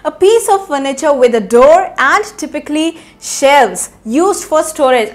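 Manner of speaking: slow careful reading; definition read aloud. Acted. Teacher reading the dictionary meaning to students. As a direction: read it out slowly for learners.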